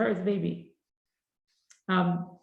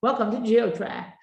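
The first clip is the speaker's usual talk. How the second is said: automated phone voice; 3 semitones higher, 3 dB louder than usual. Retold or imitated. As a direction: parody the bus hotline. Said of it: "it says".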